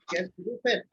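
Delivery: Qu'est-ce que vous faites run as a linked phrase, "kess" first; French pronunciation. Shown as a demonstration. Teacher models the whole question, French pronunciation. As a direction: open "Qu'est-ce que vous faites" with one-syllable "kess", falling at the end. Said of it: "It's spoken like this".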